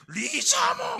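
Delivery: high shouted monster cry; Charizard. Acted. Private answering the attack order as a monster, shouting high. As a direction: stretch the name into a creature's roar. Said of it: "만화 캐릭터 리자몽을 따라하는".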